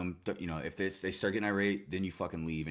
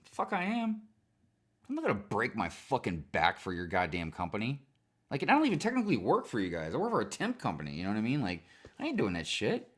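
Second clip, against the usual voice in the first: retold refusal; 3 semitones higher than usual. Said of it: "I'm like".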